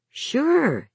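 put-on high child's voice, falling at the end; young boy. A narrator's reading. Boy assuring his mother he knows the caller, high child voice. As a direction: pitch it right up as a little boy.

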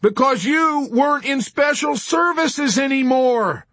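furious, panicked yelling; enraged shriek. A narrator's reading. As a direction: scream the blame down the phone. Wintergreen shrieking back by phone.

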